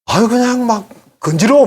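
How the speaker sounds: high, loud exasperated groan; remembering jokes that made his skin crawl; exasperated disgust. Real, not acted. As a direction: let the disgust burst out. Recalling disgust at crude jokes.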